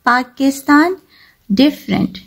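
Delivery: पाकिस्तान and डिफरेंट read in joined syllables; careful word-list reading of पाकिस्तान and डिफरेंट. Shown as a demonstration. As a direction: say पाकिस्तान, डिफरेंट with each part distinct. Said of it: "pronounced in three parts together".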